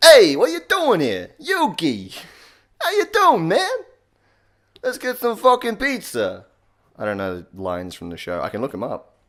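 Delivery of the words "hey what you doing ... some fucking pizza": loud, high, strained, squeezed-out Boston accent. Explaining how to voice Joey Wheeler, then doing it: Joey Wheeler voice. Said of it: "just a Boston accent, some strain, and a nice high".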